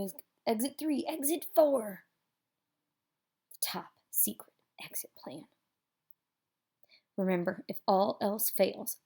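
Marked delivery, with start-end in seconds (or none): 3.5-5.4 a soft conspiratorial whisper; secretive whisper. A narrator's reading. Storyteller whispering the top secret exit plan to listeners.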